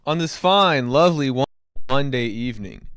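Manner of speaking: hyped stream greeting; loud, high, welcoming the chat; in front of an audience. Real, not acted.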